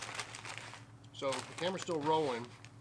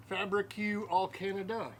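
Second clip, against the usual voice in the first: French pronunciation; 3 semitones higher than usual. Pretend. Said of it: "I speak French".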